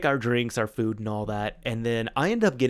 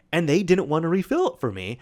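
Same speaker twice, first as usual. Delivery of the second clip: mildly miffed retold complaint; a little annoyed; 5 semitones higher, 3 dB louder than usual. Friend complaining to his buddy about the refill, a little annoyed. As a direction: imitate a friend grumbling, pitched up a touch. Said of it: "just a little bit annoyed".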